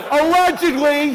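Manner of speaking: a drawn-out shout of doubt; shouted punchline. Acted. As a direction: bark the word like a big reveal.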